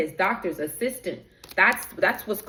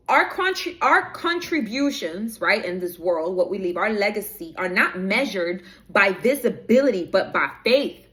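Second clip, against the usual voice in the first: deliberate, stretched key words; slow down and lean on each key phrase; 2 semitones lower than usual. Real, not acted. Rereading the written message to viewers after being told to slow down, slowed delivery. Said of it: "Spirit is telling me to slow down".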